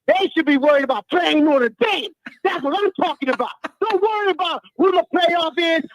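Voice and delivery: fired-up fan tirade, rising insistently; worked-up, emphatic yelling; real yelling rant. Real, not acted. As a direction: rant at the doubters with full energy. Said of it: "How can you yell like that".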